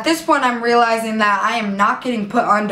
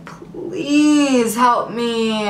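drawn-out weak plea; much slower than usual. Retold or imitated. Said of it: "I'm just like".

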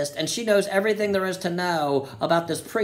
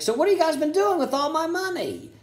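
mock billionaire demand; 8 semitones higher than usual. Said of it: "He's like".

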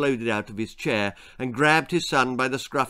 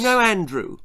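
lightly voiced boy, higher and louder; interrupting boy; 9 semitones higher, 5 dB louder than usual. A narrator's reading. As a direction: cut in like an eager boy. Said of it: "interrupted Jack".

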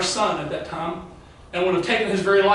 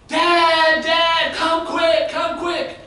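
urgent calling out; 8 semitones higher, much slower than usual. Retold or imitated. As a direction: call down the hallway in a high, alarmed voice. Teenage son calls out in alarm.

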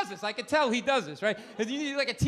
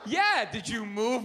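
slow mocking repeat; slower than usual.

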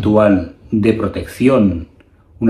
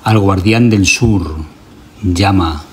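solemn chant-like recitation in measured phrases; ritual invocation. Acted. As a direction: invoke the gods firmly, pausing for listeners to repeat. Leads a repeat-after-me ritual invocation.

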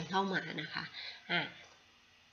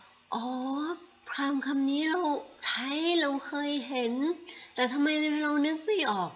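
higher, louder "oh!" of sudden recognition; surprised realization; 9 semitones higher, 6 dB louder than usual. Retold or imitated. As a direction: act out a friend suddenly remembering. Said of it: "เขาก็จะร้อง".

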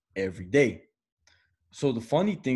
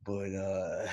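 confiding stoner voice; 3 semitones lower, 8 dB quieter than usual. Retold or imitated. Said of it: "He's like".

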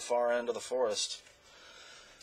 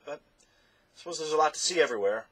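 Alec; 4 semitones higher than usual. Acted.

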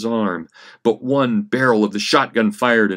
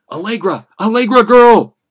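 desperate shout across the house, much higher; calling out; 13 semitones higher, 11 dB louder than usual. Acted. Frank calling for Allegra through the house, loud shout. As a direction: yell her name, searching for her.

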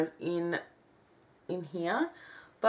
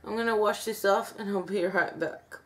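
stiff cheeks, small lip movements; speaking with tight face skin; dried clay mask on face; faster than usual. Real, not acted. Seen 3: Cracked dried clay covers whole face around lips while speaking.

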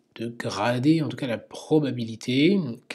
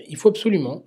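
absolument pushed out higher and louder; insistent emphasis; 6 semitones higher, 7 dB louder, faster than usual. Real, not acted. Teacher insisting all criteria be met, emphatic. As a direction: lean hard on absolument to drive the rule home.

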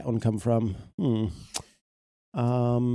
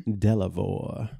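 laughing; 3 semitones higher than usual. Real, not acted. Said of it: "His cousin".

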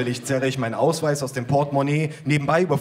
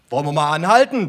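mock shout; 3 semitones higher, 5 dB louder than usual. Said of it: "brüllt er mir entgegen".

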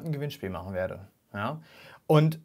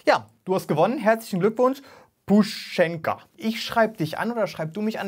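excited, higher and louder congratulations; hyped giveaway announcement; 5 semitones higher, 3 dB louder than usual. Real, not acted. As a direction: cheer the winner on.

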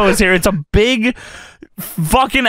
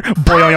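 springy cartoon boing noise; imitated boing; 5 semitones lower than usual. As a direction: mimic a wobbling spring. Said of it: "and then you hear".

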